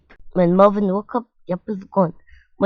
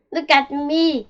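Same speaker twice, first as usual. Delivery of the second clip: put-on higher-pitched, eager young beetle; eager showing off; 7 semitones higher than usual. A narrator's reading. Young click beetle shows off to onlookers, eager. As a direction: call out for attention, pitched up.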